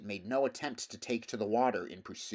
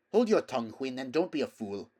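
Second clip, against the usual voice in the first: sharp rebuke; 3 semitones higher, 4 dB louder than usual. Acted. Rider scolds her mare.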